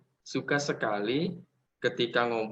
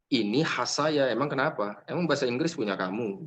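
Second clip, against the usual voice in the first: defiant retort. Pretend. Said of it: "bilang saja Chandra".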